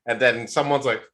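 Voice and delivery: normal talking voice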